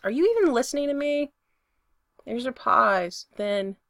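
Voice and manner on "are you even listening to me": fast, higher, louder demand; exasperated yell, rushed and raised. A narrator's reading. Spencer demanding that Brendan listen, yelling. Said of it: "he yells".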